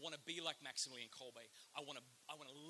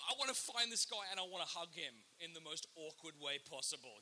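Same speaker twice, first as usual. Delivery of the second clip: excited; 2 semitones higher, 3 dB louder than usual. Retold or imitated. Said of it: "I was like".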